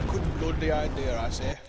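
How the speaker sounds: put-on over-the-top British toff accent, slow and loud; mock posh British accent. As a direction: play a silly upper-class British commentator. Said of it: "We should stop talking in this accent".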